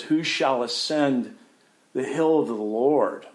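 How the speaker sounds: proclaimed, ringing psalm question; psalmist's cry. Acted. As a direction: call it out like a psalm. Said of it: "the psalmist who says".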